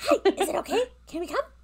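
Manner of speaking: tiny creature voice, very high and loud. A small kobold calls out as the group comes into town: little kobold voice. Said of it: "You do hear a little voice".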